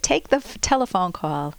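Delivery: lightly imitated Viennese accent; a hint of a Viennese conductor's accent; touch of Viennese in the voice. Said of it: "He said this in a Viennese accent".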